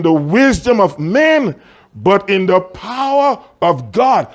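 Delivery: measured, emphatic verse reading; deliberate preacher's cadence; scripture reading. Acted. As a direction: read it out from the pulpit, slowing toward the end. Reads scripture aloud emphatically.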